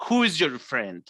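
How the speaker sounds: low, controlled angry question; acted jealous anger; angry girlfriend. Shown as a demonstration. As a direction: drop the pitch and challenge suspiciously. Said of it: "to angry".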